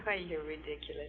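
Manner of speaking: laughing. Acted. Girlfriend laughing at his joke.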